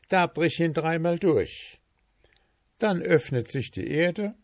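high, hurried instructions; confessing dwarf. Acted. Trapped dwarf king confessing to goldsmith, high and hurried. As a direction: spill the secret to get free.

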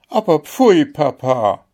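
indignant scolding. Acted. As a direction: scold your father in a high, shocked voice. Princess scolds her father on waking.

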